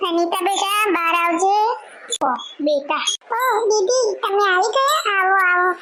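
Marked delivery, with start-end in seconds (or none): 3.4-5.7 eager daughter-in-law. Acted. Daughter-in-law greets arriving sister.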